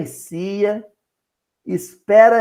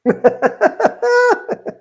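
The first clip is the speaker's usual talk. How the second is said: high burst of laughter; 4 dB louder than usual. Real, not acted. Laughs at her own joke.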